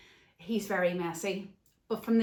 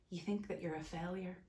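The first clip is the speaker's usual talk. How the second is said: much softer, emotion catching; choked up; 10 dB quieter than usual. Real, not acted. Telling men the lie they live under, choked up. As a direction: hold back tears on You think that you're a failure. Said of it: "Ah, I'm getting emotional".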